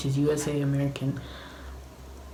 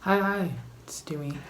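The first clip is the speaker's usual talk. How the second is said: whispering; 3 semitones higher, much faster than usual. Real, not acted. Whispered intro, sleeping housemates.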